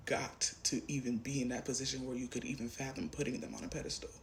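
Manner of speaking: breathy whispered aside, trailing off. Real, not acted. Reader confiding to the viewer, whispered. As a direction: drop to a whisper as if sharing a secret.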